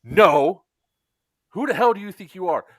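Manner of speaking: mock outraged scolding, hands slammed down; angry retort. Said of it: "she slams her hands on the table".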